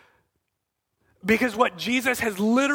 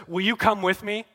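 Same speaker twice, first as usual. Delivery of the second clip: mildly pleading, gentle invitation; a gentle appeal, drawing out the last words; gently needy. Retold or imitated. Jesus asking his friends along on a sleepless night, gently needy. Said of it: "gently and needily says".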